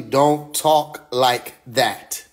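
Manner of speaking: slow, each word laid down; very slow emphatic repeat; slow, firm warning. Shown as a demonstration. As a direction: drag it out like a stern warning. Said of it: "I'm telling you".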